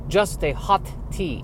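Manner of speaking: put-on slow, picked-out words in vampire accent; incredulous vampire echo. Vampire barista repeating a customer's order, incredulous.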